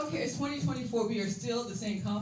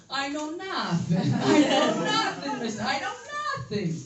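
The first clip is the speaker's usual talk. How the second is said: Manuel impression. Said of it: "like Manuel from Fawlty Towers".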